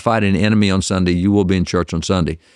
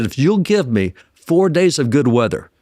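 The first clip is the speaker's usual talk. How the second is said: retold cussing-out; 7 semitones higher than usual. Soldier bargaining with Jesus for good weather, retold cussing-out. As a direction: act out an exasperated bargain, half amused. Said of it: "he cussed out Jesus real good".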